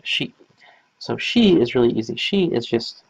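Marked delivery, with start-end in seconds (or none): 0.0-0.3 "she" said with a clear sh sound, not a plain s; pronounced with the H. Shown as a demonstration. Teacher shows students how "she" sounds: careful sh. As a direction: give "she" a full sh at the start. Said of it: "make sure you pronounce it with the H".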